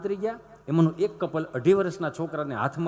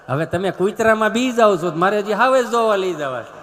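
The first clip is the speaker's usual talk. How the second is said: teasing loudly; 8 dB louder than usual. Real, not acted. Comedian teasing the audience.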